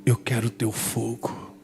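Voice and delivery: low, slow, hushed prayer; a new believer quietly asking to be filled with the Spirit; soft prayer. Retold or imitated. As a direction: pray it softly, almost whispered. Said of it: "E eu falando aquilo baixinho".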